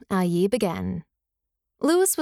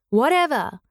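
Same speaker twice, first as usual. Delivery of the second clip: mock yell, pitched higher; retold yell back; 4 semitones higher, 3 dB louder than usual. Student yelling back at his teacher, a mild retold yell. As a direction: imitate a defiant kid's yell, only mildly raised. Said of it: "He would yell back at me".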